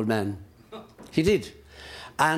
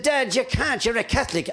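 higher-pitched pleading son's voice; shocked son; 8 semitones higher than usual. Acted. Son protests to his dying Catholic father, higher and pleading. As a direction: raise the voice as the startled son.

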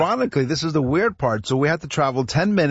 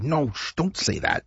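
hushed warning; 3 semitones higher, 5 dB quieter than usual. Retold or imitated. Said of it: "my wife is giving me elbow jabs".

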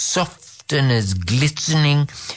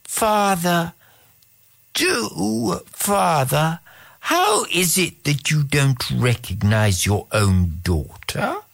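cat imitating the princess; a cat mimicking a young princess; Eleanor's voice; 3 semitones higher than usual. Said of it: "in a voice resembling that of Eleanor".

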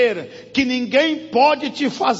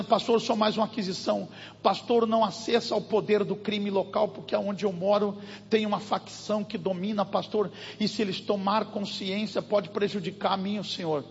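hushed warning; 3 semitones lower, 7 dB quieter than usual. Retold or imitated. Woman warning about local gang.

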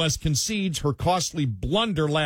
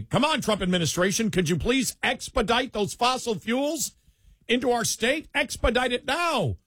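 mock pleading; 8 semitones higher than usual. Host as Democrats begging the Trump administration, mock pleading. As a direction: beg urgently in a high mock voice, stretching the last words.

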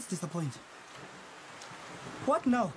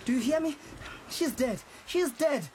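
raised voice, hammering the point home; angry insistence; 6 semitones higher than usual. Acted. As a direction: snap at her that the child is dead. Arguing about the dead child.

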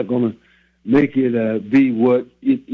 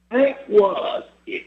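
whisper; 7 semitones higher, slower than usual. Real, not acted. Whispered aside after the saying.

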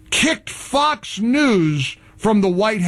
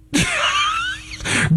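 derisive laugh. Real, not acted. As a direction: cackle at the networks' move. Laughing at networks.

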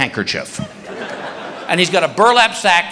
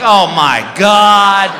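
shocked; 5 dB louder, much slower than usual. Retold or imitated. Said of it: "I'm like".

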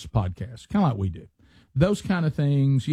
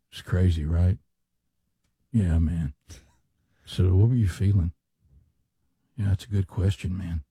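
laid-back bro chat with pauses; imitating two podcast guests reminiscing; mocking podcast bros; 7 semitones lower than usual. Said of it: "they all just kinda stay right here".

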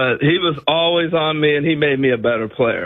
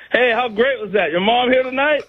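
Reggie's friendly chatter; 8 semitones higher than usual. Retold or imitated. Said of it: "he's standing there going".

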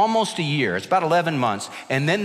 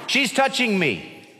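put-on slow, higher whining kid voice; whiny child; 7 semitones higher, slower than usual. Preacher mimicking a kid whining in the car, whiny. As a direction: mimic a complaining little kid.

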